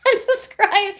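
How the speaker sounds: high, slow put-on whine; mock hater. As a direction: draw it out high, mimicking an outraged viewer. Mocking the expected haters' reaction.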